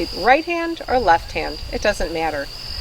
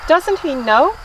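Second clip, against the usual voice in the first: lively picture-book read-aloud; story reading to children. Acted. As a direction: read it to little ones with gentle expression.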